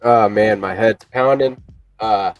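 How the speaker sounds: stuffy nose from a cold; blocked nose. Real, not acted. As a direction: talk through a blocked nose. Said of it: "I can't breathe through my nose".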